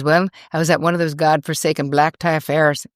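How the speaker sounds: terrible Irish accent, lightly put on; David Feherty. Golfer grumbling about black tie affairs, bad Irish accent. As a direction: imitate an Irishman with a badly faked accent. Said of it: "This is me doing a terrible Irish accent".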